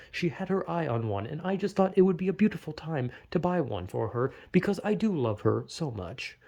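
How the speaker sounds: stiff, even robot-like politeness; robotic normal guy. Pretend. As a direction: recite it like a polite robot playing a normal person. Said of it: "Obviously not with the robotic inflection".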